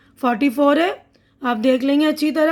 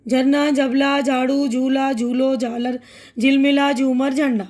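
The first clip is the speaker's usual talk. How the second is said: fast reading. Shown as a demonstration. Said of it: "अब तेज़ पढ़ रही हूँ, फास्ट फास्ट".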